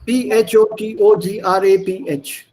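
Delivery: letters spelled out one at a time. Shown as a demonstration. Teacher spelling a word for students, letter by letter. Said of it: "how do you pronounce that?".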